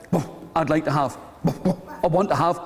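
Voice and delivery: put-on woofing old dog making a request. Old dog speaks between woofs.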